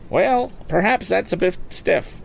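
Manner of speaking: high, brisk auctioneer selling a boat; auctioneer's pitch. Acted. Auctioneer coaxing bids from the lakeside crowd, lively and high. Auctioneer lowers his price.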